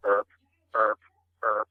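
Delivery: short grunts imitating a buck; quick repeated tending grunts; deer grunts. Shown as a demonstration. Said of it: "they're emitting a grunt".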